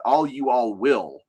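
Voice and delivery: slow, drawn-out all you all will; Southern drawl. Shown as a demonstration. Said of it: "my absolute favorite is the".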